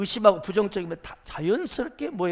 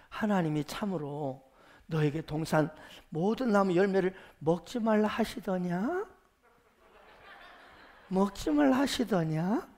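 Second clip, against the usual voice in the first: mildly sweet, lilting question; gentle coaxing. Acted. Serpent questioning Eve about the fruit, gently coaxing. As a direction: ask kindly, letting the endings rise. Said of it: "아주 상냥하게, 다정하게".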